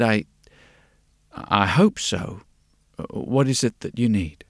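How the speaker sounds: halting, unsure, with a repeated start; hesitant. A narrator's reading. Glasses maker facing a strange customer, hesitant. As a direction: falter and pause before asking. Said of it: "he hesitated".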